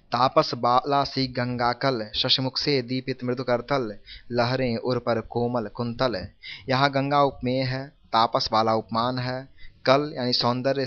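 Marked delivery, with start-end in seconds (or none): 0.1-6.3 slow, measured poem reading; unhurried recital of rhymed verse; verse recitation. Acted. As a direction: recite the couplet slowly, word by word.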